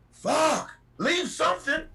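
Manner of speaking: high, exasperated plea. Real, not acted. Driver pleading with snack-taking passengers, exasperated. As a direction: beg them to leave something, fed up.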